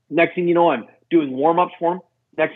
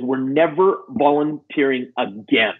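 slow, emphatic retold indignation; re-enacted slow, bitter declaration; bitter venting; 2 semitones lower, slower than usual. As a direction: drag each word out, bitterly affronted. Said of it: "Oh, I was really bitter".

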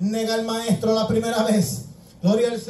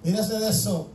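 softer, quick brush-off as Peter; dismissive denial; 2 semitones lower, 6 dB quieter, faster than usual. Acted. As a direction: wave the questioners away under your breath. Acts out Peter denying, brushing off.

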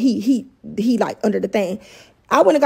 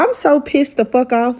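angry; 3 semitones higher than usual. Real, not acted. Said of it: "I am livid".

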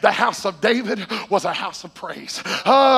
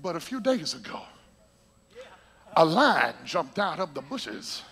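David's reply; 4 semitones lower, 4 dB quieter than usual. Retold or imitated. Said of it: "David said".

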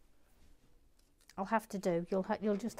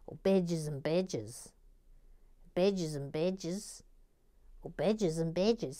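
slow Australian "bedges and bedges"; imitated Australian pronunciation; Australian accent; 4 semitones lower than usual. Shown as a demonstration. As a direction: draw out the Australian vowels, slowly. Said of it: "it works in an Australian accent".

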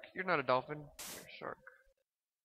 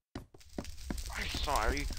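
drawn-out, badly faked English accent; half-hearted attempt at an English accent; 4 semitones lower, much slower than usual. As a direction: try an English accent and miss. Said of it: "I can't do a Englishy accent at all".

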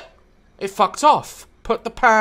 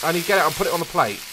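very fast rambling; 3 dB quieter, much faster than usual. Real, not acted.

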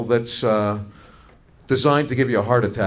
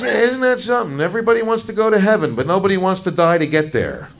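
preachy doctor; 6 semitones higher, 4 dB louder than usual. Retold or imitated. Doctor philosophizes to scared patient.

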